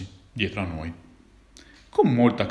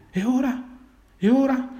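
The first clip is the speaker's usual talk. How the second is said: angoscia; 13 semitones higher than usual. A narrator's reading. Panico per gli amici catturati.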